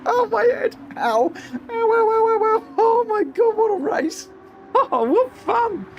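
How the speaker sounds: high, squealed words between laughs; giddy, helpless delight at a very high pitch; laughing till it hurts. Real, not acted. Commentator after a chaotic finish, laughing till it hurts.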